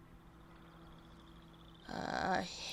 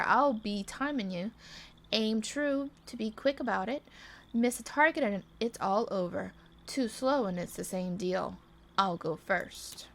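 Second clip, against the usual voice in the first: put-on southern accent. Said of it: "do my little southern accent".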